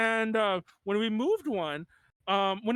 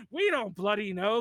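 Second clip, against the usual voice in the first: slow, mock Australian "We don't bloody know"; lightly put-on Australian rocker accent. Band members answering the host, in a mild Australian accent. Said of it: "harsh Australian accents".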